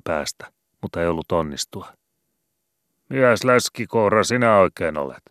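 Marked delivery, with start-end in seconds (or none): 3.1-5.2 high, loud jeering yell; mock him at full voice; mocking shout. A narrator's reading. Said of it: "huuteli Matti".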